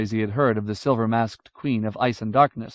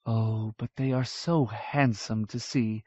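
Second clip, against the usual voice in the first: slow, softer, pretending to mean it; mildly teasing, softer and slow; mock-serious tease; 5 dB quieter, slower than usual. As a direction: dangle the joke before laughing.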